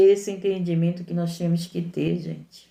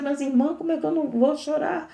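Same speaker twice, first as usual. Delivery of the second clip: higher, plaintive mock objection; a believer protesting to the preacher, in a higher plaintive voice; imitating a doubting listener; 7 semitones higher than usual. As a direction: voice a hurt believer's complaint. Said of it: "Aí você vai dizer".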